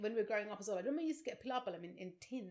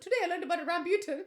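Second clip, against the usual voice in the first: put-on laughing child excitement; 9 semitones higher, 9 dB louder, faster than usual. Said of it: "I went home and I said".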